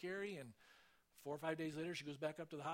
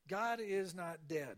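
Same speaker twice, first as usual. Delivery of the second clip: God is not dead said slowly and louder, each word weighted; slow, emphatic declaration; 6 dB louder, much slower than usual. Real, not acted. Preacher to congregation, declaring his point slow and loud. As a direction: proclaim it slow and loud like a creed.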